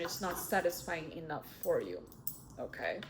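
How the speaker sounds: sleepy, trailing, fading voice; drowsy and drifting off; nodding off. Real, not acted. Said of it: "I'm falling asleep right now".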